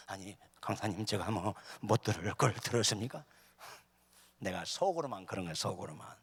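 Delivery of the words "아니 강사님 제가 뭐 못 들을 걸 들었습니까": low, soft, taken-aback elder; mock trembling dismay. Host elder shaken by the preacher's complaint, mildly acted dismay. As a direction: ask meekly in a hushed, lower voice. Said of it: "막 손을 떨면서".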